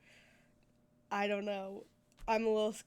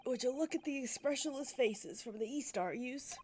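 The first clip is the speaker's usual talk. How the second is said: a curious Irishman, lightly voiced; attempted Irish accent; 3 dB quieter than usual. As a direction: play a chatty Irish stranger. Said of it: "I can't do an Irish accent".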